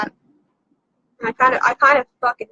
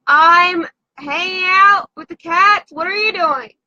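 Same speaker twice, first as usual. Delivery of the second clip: through a vent; 3 semitones lower, 3 dB louder, slower than usual. Real, not acted. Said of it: "are you talking through the vent".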